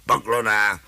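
short grumbled greeting; zabručení. Acted. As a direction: grumble it curtly as the shopkeeper. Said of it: "Pichl zabručí". (zabručeně, úsečně)

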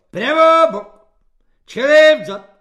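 squeaky high barked orders; high squealing parade-ground shout; shrill drill commands. A narrator's reading. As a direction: screech the drill commands like a petty corporal. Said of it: "piščal svobodník Halík".

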